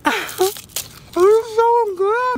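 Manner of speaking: high, slow laughing delight. Real, not acted. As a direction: laugh through the words, delighted. Laughing over tasty snack.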